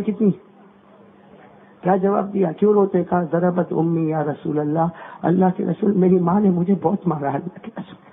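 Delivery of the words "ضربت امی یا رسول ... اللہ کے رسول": mild tearful reply. Acted. The weeping man tells the Prophet his mother hit him, tearful. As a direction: answer with head bowed in grief.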